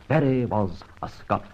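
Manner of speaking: "Barrie was a Scot" with "Scot" said as the proper word, not "Scotch"; correct word. Shown as a demonstration. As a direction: firmly correct her to "Scot". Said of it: "Barrie was not Scotch".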